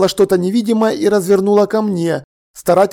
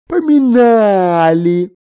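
drawn-out, slowed yawn of a talking cat; a cat answering mid-yawn, half meowing; 3 semitones higher, 3 dB louder, much slower than usual. Acted. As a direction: yawn the word like a sleepy cat. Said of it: "получилось скорее помимяу".

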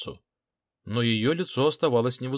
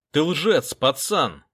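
louder, snapping accusation; angry bark; 4 semitones higher, 6 dB louder, much slower than usual. A narrator's reading. Detective calling the boy a liar, angry bark. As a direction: bark it right in his face. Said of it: "рявкнул я".

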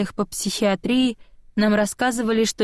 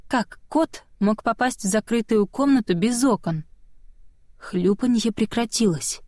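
plain reading voice

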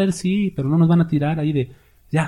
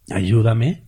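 whiny plea; 4 semitones lower than usual. Retold or imitated.

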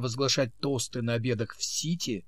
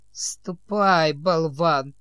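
snide hiss; 3 dB louder, much slower than usual. Acted. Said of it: "ехидно прошипел он вслед Сэму".

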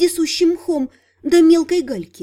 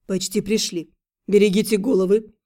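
encouraging; 6 semitones lower than usual. A narrator's reading. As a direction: cheer them on gently. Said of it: "подбодрил своих спутников".

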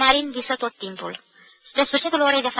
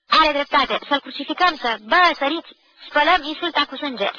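higher, loud playful war cry; mock rallying shout; 5 semitones higher, 4 dB louder than usual. Classmate joining the playful revenge on the modernist, loud. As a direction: whip up the crowd for fun.

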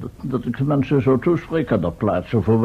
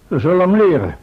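louder, vowing revenge; grim threat; 3 semitones higher, 5 dB louder, much faster than usual. Acted. Professor vowing to teach the thief a lesson, threatening. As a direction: make it a promise of punishment.

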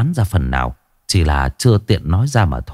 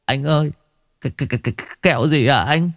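naive; 5 semitones higher, 4 dB quieter, much faster than usual. Acted. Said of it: "Thằng Tùng ngây ngô".

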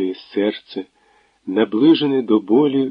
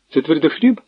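mocking caller; 6 semitones higher than usual. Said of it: "спитала трубка наталченим голосом".

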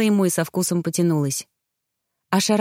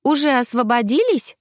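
higher-pitched friend peeking in; greet, then ask tentatively in a high voice; cautious inquiry; 8 semitones higher than usual. A narrator's reading. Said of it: "осторожно поинтересовалась Эльва". (осторожно, высоким голосом)

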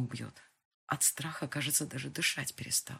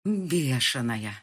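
hissed insult; 2 semitones lower, 8 dB louder, much slower than usual. Acted. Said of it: "тяжело дыша, прошипел он".

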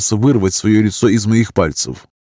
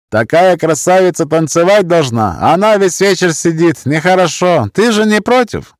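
put-on high, pushy Gypsy-accented drunk; 9 semitones higher, 4 dB louder than usual. A narrator's reading. Drunk pressing for a dance, insistent Gypsy accent. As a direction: lay on a tipsy Gypsy accent. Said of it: "явно очень пьяного немолодого цыгана".

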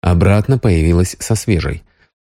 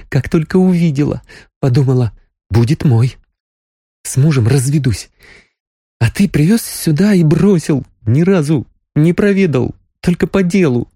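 higher Sonya voice, lightly reproachful; flirty reproach; 8 semitones higher than usual. A narrator's reading. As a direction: tease him for leaving her.

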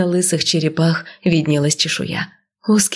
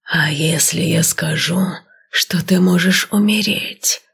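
slow, whispered serpent hiss; hissing inhuman voice; slower than usual. Acted. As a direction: hiss it like an ancient snake. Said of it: "прошипел нечеловеческим голосом".

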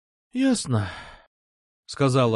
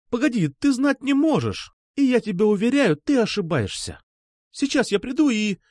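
much higher, pressing protest; urgent girl; 10 semitones higher than usual. A narrator's reading. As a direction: cut him off in a rush. Alpha urgent, high, louder.

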